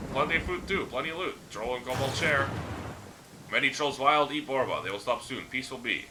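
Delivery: lightly voiced simple-minded troll, pitched a bit up; a hint of a friendly, dim troll boasting; rough troll voice. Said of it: "The troll's voice is rough and gravelly".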